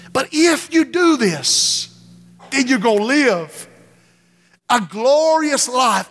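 slow, high, building to a shout; rising preaching. Real, not acted. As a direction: preach it up to a cry of glory.

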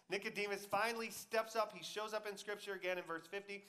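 ordinary talk, nothing marked

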